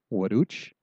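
"Waduch?" rising at the end; teacher asking "Waduch?"; asking a question. Shown as a demonstration. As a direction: make "Waduch?" a clear question. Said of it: "when you ask the question".

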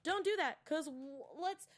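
high urgent warning; pleading don't do that; retold quick protest; urgent plea. Retelling telling someone to stop.

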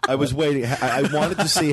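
said through a laugh. Real, not acted. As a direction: laugh while speaking. Reacting to the cocky joke.

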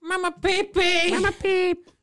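very high, drawn-out silly squeal; high pet call. Pretend. Showing friends the pet name for the dog, silly high call.

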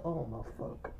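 very quiet, low retold disbelief; stunned aside. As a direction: act out the friend under his breath, appalled. Retells friend's stunned reaction again.

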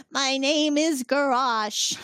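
slow mock squeaky alien kid. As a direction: draw out the alien's introduction slowly. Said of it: "The squeaky voice".

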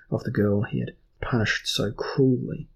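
ordinary delivery

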